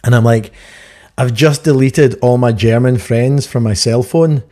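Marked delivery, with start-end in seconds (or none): 1.2-4.4 drawn-out deadpan punchline; slow punchline delivery. Retold or imitated. Comedian slowly delivers punchline to German CEO. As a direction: let the punchline land slowly.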